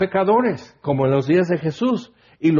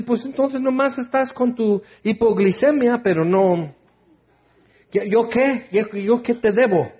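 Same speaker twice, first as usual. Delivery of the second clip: mock entitled faster; 6 semitones higher than usual. Mocking God's reply, entitled faster.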